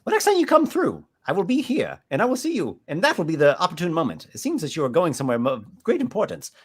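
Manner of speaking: butter him up to close the sale; pushy merchant. Acted. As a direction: GM voicing a smooth-talking shell merchant. Merchant NPC voice.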